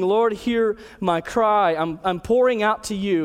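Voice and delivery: "Lord, hear my cry" slow, each word weighted; insistent, imploring prayer, leaning on "hear"; emphatic cry. Acted. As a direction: pour it out, stretching "hear" and "cry". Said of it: "He's being emphatic".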